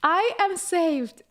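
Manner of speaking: slow, awed relief; mock relief. Hearing the professor speak English, slow awed relief. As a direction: savour each word like a rescue. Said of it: "I was like".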